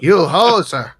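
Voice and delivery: mock Canadian. Echoing the joke, loud mock Canadian accent. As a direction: bark it like a cartoon Canuck. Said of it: "doesn't sound quite Canadian".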